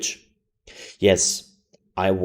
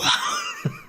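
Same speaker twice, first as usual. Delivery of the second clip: sudden high laughing burst; burst of laughter. Real, not acted. Reacting to deep voice.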